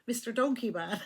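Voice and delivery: giggling through the words; cracking up at her own joke; laughing. Real, not acted.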